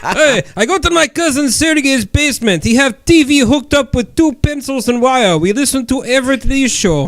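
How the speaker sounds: light mock Russian accent, broken English; a hint of a Russian accent; Dimitri in Russian accent. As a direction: answer as a Russian guest in a playful accent. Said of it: "Let me ask Dimitri".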